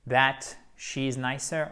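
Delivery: that she's nicer, not the subjunctive; common mistake. Shown as a demonstration. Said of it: "Non, non".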